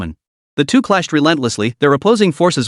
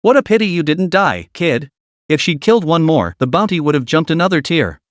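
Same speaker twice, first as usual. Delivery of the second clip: mocking. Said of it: "a mocking voice".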